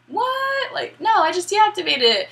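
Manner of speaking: high-pitched shocked squawk; mock disbelief. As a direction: blurt it out high, as if baffled. Player shocked that card activated Rex.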